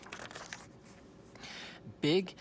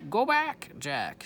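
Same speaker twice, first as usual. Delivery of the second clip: high, loud parrot squawk on Go back; 5 semitones higher, 6 dB louder, slower than usual. Shown as a demonstration. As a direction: screech it like Polly. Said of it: "She's, er".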